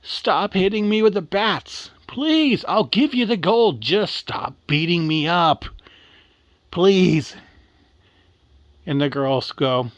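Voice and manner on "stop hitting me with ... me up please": high, louder acted pleading; desperate scream. Dying leprechaun offering his gold for mercy, acted desperate scream. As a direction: beg for mercy in a mock scream. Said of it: "he finally screams with the last breath he has".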